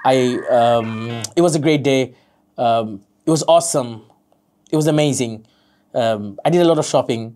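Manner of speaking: hesitant learner. Shown as a demonstration. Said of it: "চলেন একটা example দেখি".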